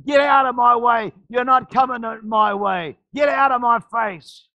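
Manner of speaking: shouting down the storm; commanding shout. Shown as a demonstration. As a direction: order the trouble away. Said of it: "You gotta speak to the storms".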